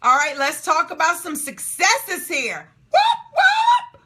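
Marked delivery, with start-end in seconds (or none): 2.9-4.0 high, loud cheering whoop; excited whoop. Real, not acted. Cheering successes.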